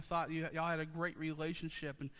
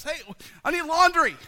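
mock plea, much higher and louder; needy husband; 9 semitones higher, 13 dB louder than usual. Pastor imitating himself pestering Jenny, high mock plea. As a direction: whine like a helpless husband. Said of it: "only time I went to Jenny was when I was in a crisis".

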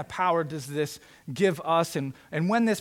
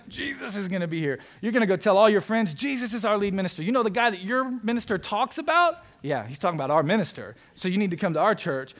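raised pitch, eager bragging to friends; pumped, excited; 4 semitones higher, 4 dB louder than usual. Acted. Church members telling friends about their new minister, pumped and excited. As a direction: play a congregation thrilled at the news. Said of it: "We would be so pumped and so excited".

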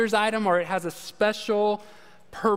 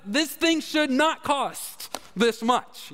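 slow, higher, put-out inner voice; indignant thought; 5 semitones higher, much slower than usual. Retold or imitated. Buyer grumbling to himself about the price, slow and indignant. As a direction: drag it out like an offended buyer.

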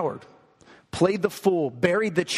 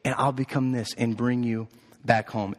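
lower, lightly voiced mother bunny; 5 semitones lower than usual. Mother bunny brings her child back home, low and calm. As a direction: drop the pitch for a calm, settled answer. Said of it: "And she said".

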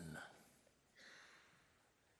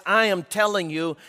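louder, "I" stressed hard; insistent declaration; 3 semitones higher, 4 dB louder than usual. Acted. Preacher as God commanding Moses, loud and insistent. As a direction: declare it with full authority.

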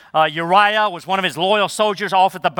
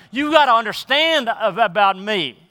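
emphatic voice of God; 5 semitones higher than usual. Acted. Preacher voicing God to the congregation, emphatic and pleading. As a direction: press each word home like God pleading. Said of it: "Is he not so emphatically saying".

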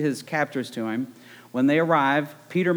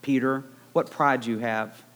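lightly voiced wolf, slow and sly; Big Bad Wolf imitation. Preacher voicing Jesus to Peter as the sly wolf, slow. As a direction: drawl it slowly like the wolf in the fairy tale. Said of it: "like Red did in Little Red Riding Hood".

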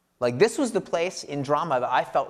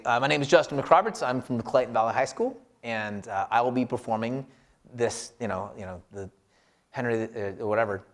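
careless intro; 3 semitones lower than usual. Retold or imitated. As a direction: toss it off like you don't care, letting the end fade. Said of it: "instead of saying".

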